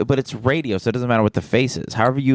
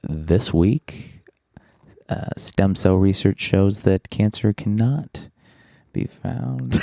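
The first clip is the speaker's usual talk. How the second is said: attempted non-sultry radio read; slower than usual. Shown as a demonstration. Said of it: "I'll try not to say it horny".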